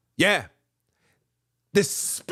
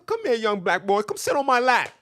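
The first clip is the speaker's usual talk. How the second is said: creepy lure voice; 5 semitones higher than usual. Acted. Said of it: "I'm talking it like that".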